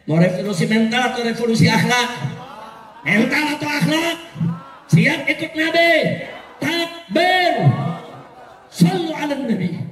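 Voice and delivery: shouted rally questions and calls; rallying the crowd. Real, not acted. Preacher asking the crowd to follow the Prophet, rallying. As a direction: fire up the crowd for an answer.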